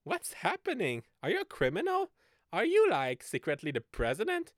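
mock baffled questions. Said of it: "And I'm like".

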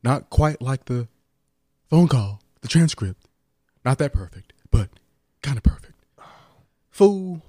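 lightly voiced president impression, halting phrases; Donald Trump. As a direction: parody a self-satisfied politician, pausing between chunks. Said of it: "you and your Trump impression".

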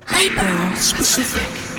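slow, drawn-out segment title; mock game-show segment announcement; announcer voice. Shown as a demonstration. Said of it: "editor Ben can put in the music".

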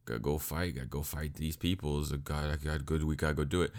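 lightly acted sleepy grumble; mock sleepy. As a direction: play it half-asleep and reluctant. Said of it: "Yusuke's absolutely sleepy".

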